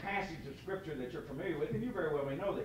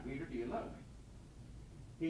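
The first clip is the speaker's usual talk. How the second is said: slow, soft near-whisper; hushed gentle question; 7 dB quieter, slower than usual. Acted. Jesus gently asking Peter on the shore, hushed. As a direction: ask it tenderly under the breath.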